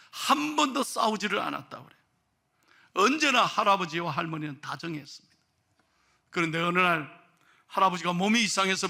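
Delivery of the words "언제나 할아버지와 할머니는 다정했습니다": ordinary talk, nothing marked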